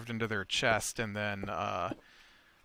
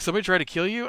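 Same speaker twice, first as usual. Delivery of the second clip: higher, louder, startled rise; surprised question; 7 semitones higher, 5 dB louder, much faster than usual. Retold or imitated. Player startled by the attempted murder, surprised. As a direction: players suddenly realising the danger. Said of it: "And they're like".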